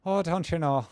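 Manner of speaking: mock Northern Irish accent. Teasing a viewer about Belfast in a mock Northern Irish accent. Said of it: "I'm no good at doing accents".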